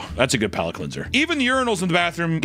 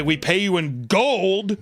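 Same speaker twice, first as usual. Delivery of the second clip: slow boast; 3 semitones higher, much slower than usual. Pretend. Mock Wendy's boast.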